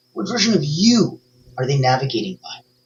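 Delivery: heavy stress on the word "you".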